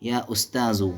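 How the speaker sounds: उस्ताजु ending in a bare short "u"; one damma. Shown as a demonstration. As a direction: say या उस्ताजु with no final n. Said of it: "one ज़म्मा".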